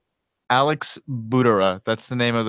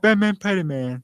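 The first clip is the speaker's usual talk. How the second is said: announcer voice; 10 semitones higher, 5 dB louder than usual. Shown as a demonstration. Corrects title in announcer style.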